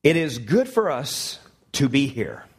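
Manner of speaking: slow, earnest Peter, leaning on good; a hint of Peter voiced in earnest; good old Peter. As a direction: say it like a sincere Peter in awe, slow. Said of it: "this is good old Peter".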